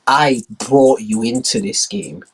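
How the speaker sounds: slow, firm reminder; lightly voiced slow menace; menacing China. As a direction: press each word slowly. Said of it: "China, like".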